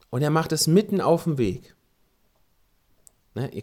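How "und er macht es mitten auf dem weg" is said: ordinary talk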